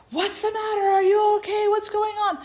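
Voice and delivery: high, urgent grandmother calling up the stairs; worried grandmother. Retold or imitated. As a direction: rush in asking what's wrong.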